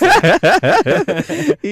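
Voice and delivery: high peal of laughter; real loud laugh. Real, not acted. Expert amused by the parent's slip, laughing loudly. Still amused at host's confession.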